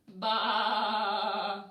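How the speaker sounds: loud sung bleat; sheep baa. Acted. Reading to little ones, a loud singing sheep baa. Reading animal sounds book.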